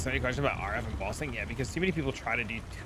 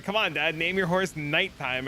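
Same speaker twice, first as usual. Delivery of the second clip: put-on pleading kid voice; 5 semitones higher, 3 dB louder, slower than usual. Voicing son pleading.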